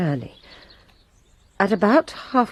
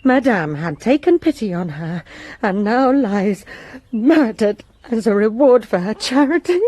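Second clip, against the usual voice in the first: rising, louder, close to tears with anger; distressed outburst; 3 semitones higher, 4 dB louder than usual. Acted. Maid protesting her mistress's murder, upset and raised. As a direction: let the grief spill over into indignation. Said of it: "Oh, calm yourself".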